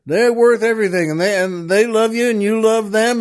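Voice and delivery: high, eager shout upward; oil man shouts up at the jumper. Acted. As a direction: call it up high, pleading. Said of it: "He just shouts out".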